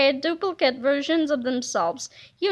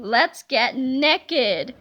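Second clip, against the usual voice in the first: slow giddy teacher; 4 semitones lower, much slower than usual. Acted. Crazed teacher.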